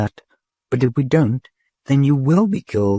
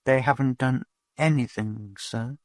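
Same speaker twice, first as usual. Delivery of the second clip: much higher, slow and shrill; frightened questioning; 7 semitones higher than usual. A narrator's reading. Dodath frightened, questioning the patrol robot. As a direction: press the robot, scared.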